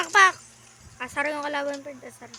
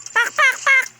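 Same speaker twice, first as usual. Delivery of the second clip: excited sound effects; 6 semitones higher, 5 dB louder, slower than usual. Real, not acted. Sound effects during play.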